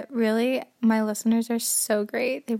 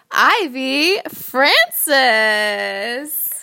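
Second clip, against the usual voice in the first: big punched show-opener with drawn-out words; podcast host intro; 5 dB louder, slower than usual. Acted. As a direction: announce your guest like a show host.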